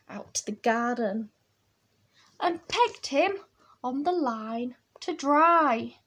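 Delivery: put-on animated read-aloud for children; picture-book storytelling. A narrator's reading. Reading Bear's trip to the line, animated storytelling. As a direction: tell it in relished little phrases.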